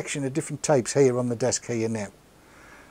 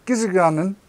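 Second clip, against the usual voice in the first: Geordie patois; 4 semitones higher than usual. Retold or imitated. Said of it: "Much easier in Geordie".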